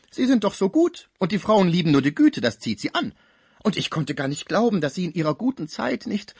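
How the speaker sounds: high, animated flattery; coaxing concierge. Acted. Concierge flatters and probes the sick man, high-pitched effusive coaxing. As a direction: gush at him, nosy and disbelieving.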